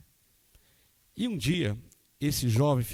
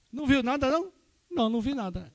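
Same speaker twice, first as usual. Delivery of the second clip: surprised; 13 semitones higher than usual. Retold or imitated. Pastor and father exchange.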